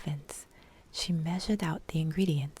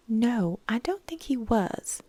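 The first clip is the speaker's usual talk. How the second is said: serious; 6 semitones higher, 5 dB louder than usual. Acted. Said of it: "said Miss T seriously".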